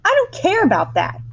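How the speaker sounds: put-on very high, loud spoiled-child shout; bratty shout. A narrator's reading. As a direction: shout back defiantly. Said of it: "shouted Veruca".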